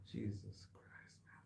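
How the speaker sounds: slow breathy whisper, voice dropped away; whispered exasperation. Real, not acted. Mechanic whispering to himself over the repair, slow and hushed. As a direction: breathe it out like a weary prayer.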